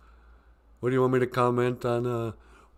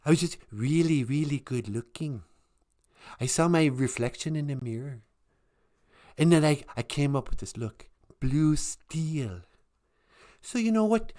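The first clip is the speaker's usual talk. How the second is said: Zoolander impression; 4 semitones higher than usual. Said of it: "Remember that Zoolander guy?".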